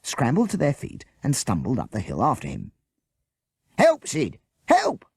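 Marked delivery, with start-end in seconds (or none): 3.8-4.4 high, loud yell to his partner; screaming for help. Acted. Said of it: "Bert screamed". 4.7-5.1 very high, loud desperate scream. Acted. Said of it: "Bert screamed".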